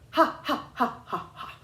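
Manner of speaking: high, choppy laugh with gaps between each ha; separated giggling ha ha; broken-up laugh. Shown as a demonstration. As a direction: break between each ha on purpose. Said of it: "you would never go".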